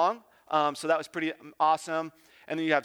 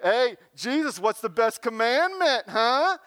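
higher, louder cocky call from the back of the crowd; heckler calling out; 5 semitones higher, 3 dB louder than usual. Retold or imitated. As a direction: call out to Jesus like a smug heckler. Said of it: "kinda yelled out to him".

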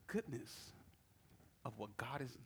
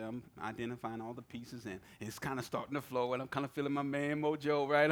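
usual speaking voice

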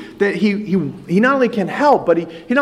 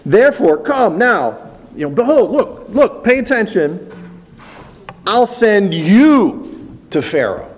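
louder, emphatic divine command, slowing at the end; commanding voice of God; 3 semitones higher, 3 dB louder than usual. Retold or imitated. The Lord commanding Moses to go, loud and emphatic. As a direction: boom out the call like God summoning. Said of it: "And the Lord says".

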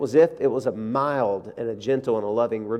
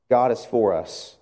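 softer sincere repeat; 2 semitones lower, slower than usual. Shown as a demonstration.

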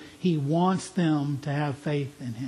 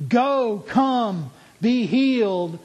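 firm, louder divine command; 5 semitones higher, 4 dB louder, slower than usual. Acted. Preacher voicing Jesus' command with all heaven's power, louder and firm. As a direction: speak it with full authority, louder. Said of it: "with all the power of the creator".

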